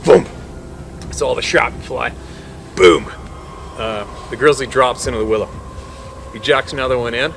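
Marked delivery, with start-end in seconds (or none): 2.7-3.1 mock gunshot. Imitating gunshot in story.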